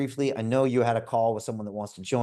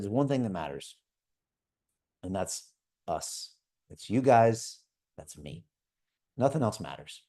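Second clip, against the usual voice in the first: tender fatherly reassurance; 3 semitones lower, 3 dB quieter than usual. Retold or imitated. Father consoling his sons, retold.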